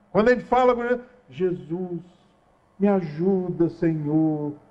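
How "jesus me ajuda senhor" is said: slow, honeyed, syrupy sweet voice. The speaker imitates how people talk to Jesus in prayer, mock syrupy sweet voice. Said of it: "aquela voz melosa".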